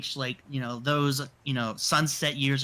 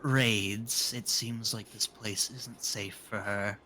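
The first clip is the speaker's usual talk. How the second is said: put-on frail old woman voice; 4 semitones lower, 4 dB quieter, slower than usual. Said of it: "she'll speak in a very soft, kind of frail voice".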